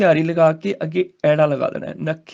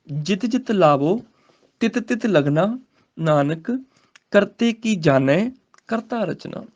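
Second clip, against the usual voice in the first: measured, slow recital of the verse; slow scripture recitation; slower than usual. Shown as a demonstration. Teacher reciting a verse for students, slow and measured. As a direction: recite each phrase slowly with pauses.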